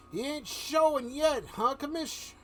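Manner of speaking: high, loud gruff cop voice; tough-guy cop griping; Bullock voice. Acted. Bullock asking the commissioner, loud and high.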